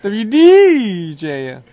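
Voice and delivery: DJ call letters. Shown as a demonstration. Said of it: "No, no, no, no".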